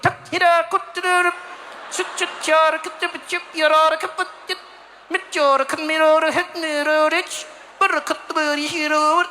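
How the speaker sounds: high, tight mock-Swedish gibberish; curt mock Swedish. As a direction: rattle off Swedish as if too cold to open your mouth. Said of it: "you can't mess around out there".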